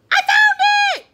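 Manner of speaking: high, loud shout of discovery; yell. A narrator's reading. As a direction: yell it out in triumph. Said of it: "yelled Froggy".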